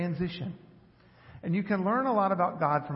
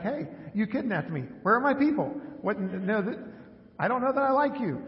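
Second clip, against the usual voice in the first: a touch higher, mock-indignant questioning; lightly voiced indignant dog; 3 semitones higher than usual. Owner voicing his newly adopted dog's complaint, mildly mock-indignant. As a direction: protest like a bewildered kidnapped dog. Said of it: "And she's like".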